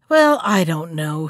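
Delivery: low-pitched, offhand doubt; careless. A narrator's reading. Monkey hiding his pleasure from the shark, careless. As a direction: say it as if it hardly matters. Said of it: "he remarked carelessly".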